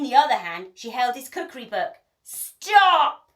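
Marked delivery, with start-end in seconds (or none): 2.2-3.3 high, loud order; commanding shout. A narrator's reading. Pirate chief to his crew, loud commanding shout. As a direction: halt them at once. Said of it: "called Hank Chief".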